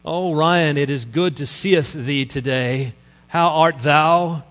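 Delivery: lightly hammed-up Old English piety; a touch of pompous King James speech; slow and lofty mock thee-and-thou. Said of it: "speak to each other in psalms and hymns in Old English".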